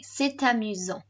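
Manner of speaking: "C'est amusant" joined up, T linking into amusant; model pronunciation. Shown as a demonstration. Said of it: "Repeat after me".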